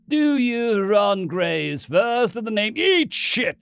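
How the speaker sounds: high, loud furious scream. Acted. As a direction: scream over the priest. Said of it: "Ronson screamed".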